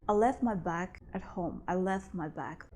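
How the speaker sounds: "left" said as "lef'", with no T before "my"; no T sound. Shown as a demonstration. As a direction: drop the T of "left". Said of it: "I don't pronounce here the T sound".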